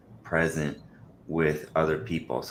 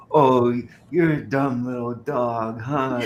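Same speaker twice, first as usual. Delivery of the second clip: higher, sing-song pet talk; sweet talk to the dog; 6 semitones higher, 5 dB louder, slower than usual. Retold or imitated. Teasing the kids by cooing at the dog, high pet talk. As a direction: coo the insult sweetly. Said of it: "And I'd go up and I'd go".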